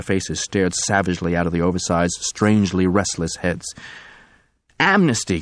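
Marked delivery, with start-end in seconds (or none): 4.8-5.4 screaming. Acted. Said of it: "Robbie Del Rey was screaming".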